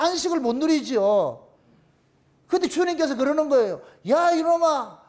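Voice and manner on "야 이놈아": higher-pitched mock scolding; acted rebuke. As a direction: reprove like the Lord correcting someone. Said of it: "이렇게 책망할 때가 와". (나무라듯 높은 목소리로)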